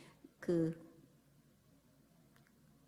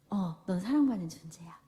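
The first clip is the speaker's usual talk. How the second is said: whispered; 3 semitones lower than usual. Acted. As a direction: whisper it gently to the child. 부모의 다정한 답. (아이에게 속삭이는 다정한 부모, 속삭임)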